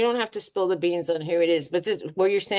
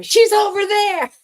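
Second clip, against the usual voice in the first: a high, laughing mock shout; retold yell through laughter; 11 semitones higher, 5 dB louder, slower than usual. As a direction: call it out across the store, slowly. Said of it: "she yelled at him".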